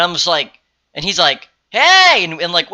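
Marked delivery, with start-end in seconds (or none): 1.7-2.2 much higher, loud hailing call; imitated holler. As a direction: mimic someone hailing from far away. Retold man calling again, waving.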